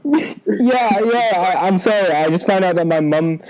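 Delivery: giggly high voice. Real, not acted. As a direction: squeak out the words while cracking up. Giggling high after statistic joke.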